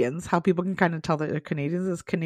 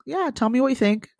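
flat, falling and dismissive; flat uninterested; 6 semitones higher than usual. Shown as a demonstration. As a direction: ask as if you don't care. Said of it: "if somebody said that to you like that".

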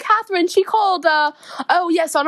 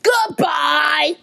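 put-on thick Yorkshire accent. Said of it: "That is one thick Yorkshire accent".

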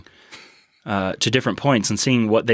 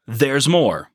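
infomercial; 3 semitones higher, much slower than usual. Pretend. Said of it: "Call now and we'll double your offer".

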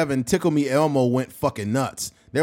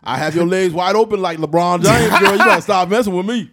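louder, laughing mock bravado; playful Shannon boast; hammed-up Shannon impression; 5 semitones higher, 7 dB louder than usual.

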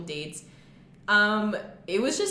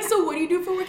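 higher and louder, asking over a noisy room; calling over noise; 10 semitones higher, 6 dB louder, faster than usual. Retold or imitated. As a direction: raise the voice to be heard across the table. Asking a mumbling date, couldn't hear.

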